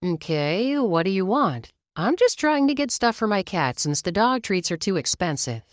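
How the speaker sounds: lightly voiced South African accent; a hint of South African accent; slight South African accent. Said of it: "Me with a slight South African accent".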